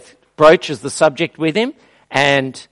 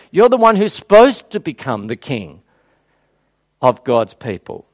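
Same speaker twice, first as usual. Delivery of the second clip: imagined humble Abner; 4 dB louder than usual. Retold or imitated. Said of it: "you would think that he would say".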